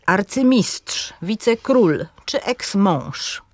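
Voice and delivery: akcent na MISTRZ, KRÓL, MĄŻ w „arcymistrz, wicekról, eksmąż”; akcent na ostatniej sylabie. Shown as a demonstration. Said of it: "przykłady akcentu na ostatniej sylabie". (wolne, wzorcowe „arcymistrz, wicekról”, z mocną ostatnią sylabą)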